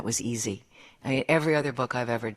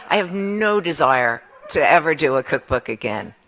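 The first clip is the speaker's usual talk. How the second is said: laughing; 3 semitones higher, 7 dB louder than usual. Real, not acted. Laughing while quoting the photographer.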